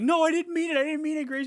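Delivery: high, whiny imitation of begging; put-on desperate excuse; mock panicked pleading. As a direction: plead for your life, hammed up. Voices character begging before blowing up.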